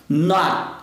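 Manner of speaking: "Not" ending on an unreleased T; T preso. Shown as a demonstration. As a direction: hold the T of "Not" against the palate. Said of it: "você segura esse T no céu da boca". ("Not" sem soltar o T final)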